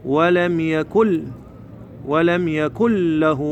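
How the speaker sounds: slow chant, يكن said "yakul" onto a doubled L; idgham. Shown as a demonstration. Teacher shows the tongue's move, n merged into L. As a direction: go straight from the k of يكن to a held ل. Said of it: "لسانك من الضمة هاي مال الكاف على اللام المشددة".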